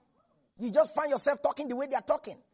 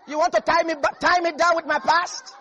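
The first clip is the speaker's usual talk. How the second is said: defiant challenge; 5 semitones higher, 6 dB louder than usual. Acted. Preacher voicing Rahab's defiance.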